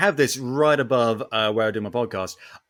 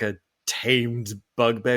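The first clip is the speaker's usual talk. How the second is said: ordinary talk, nothing marked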